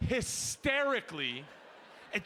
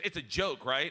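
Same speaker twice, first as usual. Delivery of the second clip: checking question; 5 semitones lower than usual. Retold or imitated. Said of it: "She goes".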